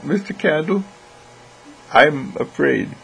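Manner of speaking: lightly voiced boy admitting fear; frightened boy. A boy looks up at Mister Candle to confess, frightened. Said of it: "the boy looked up at me and said".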